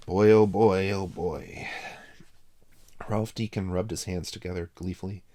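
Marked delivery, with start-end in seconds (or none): 0.1-1.7 loud gleeful exclaim. Acted. Ralph gloats aloud before the chess talk, loud and gleeful. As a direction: relish the moment aloud.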